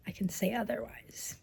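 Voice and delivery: whispering. Real, not acted. Hoping week ends better.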